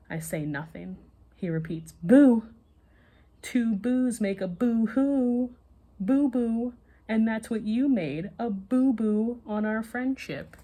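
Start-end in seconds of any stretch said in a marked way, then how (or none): 2.0-10.6 higher, louder, slow sing-song scolding; mock-sulky kid voice. A narrator's reading. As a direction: wag a finger in a stretched sing-song. Amber scolds Justin.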